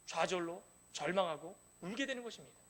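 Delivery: ordinary talk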